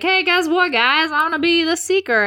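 high, eager announcement; mock excitement. Harry tells his friends at dinner, mock excited. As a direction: burst out with big news, hammed up.

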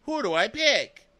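high, hammed-up dilemma; mock anguished indecision. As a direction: agonize theatrically, leaping up at the end. Acted dilemma of choosing between suitors.

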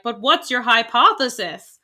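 gruff elder scientist asking; old man scientist voice. Retold or imitated. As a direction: voice a stuffy old professor. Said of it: "I did say that in my old man scientist voice".

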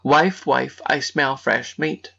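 slow suspicious ogre call; lightly voiced ogre, drawn out. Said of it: "the ogre's first words were".

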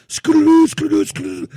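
playful singsong. Pretend. Playful pump-working jingle.

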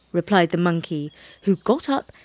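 usual speaking voice

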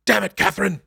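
P=A; mock whiny Chakotay.

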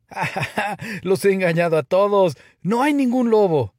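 high, gleeful mocking laughter; laugh, then crow loudly over the trick; roaring with laughter. A narrator's reading. Shepherd boy gloating to fooled villagers, laughing hard. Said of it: "riéndose a carcajadas".

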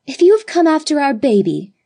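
put-on high, loud, fierce girl's outcry; vehement cry. A narrator's reading. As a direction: cry it out vehemently to defend the baby. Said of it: "cried Judith vehemently".

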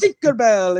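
mock Italian accent; a touch of cartoon Italian accent; stereotypical Italian accent. Italian Tinkerbell introduces herself, mock accent. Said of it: "Tinkerbell that was Italian and it came out".

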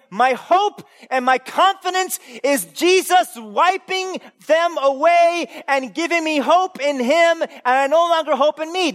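slow, high, loud heartfelt plea; earnest confession. Acted. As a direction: declare your hope with full conviction. Voicing the repentant Christian.

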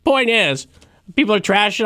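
high, hammed-up Brooklyn accent. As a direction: push the point in a Brooklyn accent. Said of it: "I'm doing a Brooklyn accent".

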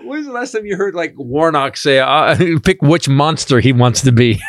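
laughing in disbelief. Real, not acted. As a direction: crack up while asking. Laughing incredulous.

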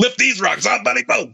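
hammed-up jock Luke egging a student on; mock Luke.

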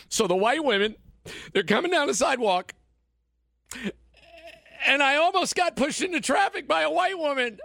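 sarcastic impression of a wailing snowflake; mock whiny victim.

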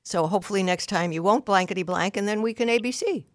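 mild, even demo of a calm parent; very calmly said. Shown as a demonstration. Parent explaining a consequence to defiant daughter, lightly calm. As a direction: lay out the consequence gently and steadily. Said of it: "So you very calmly say".

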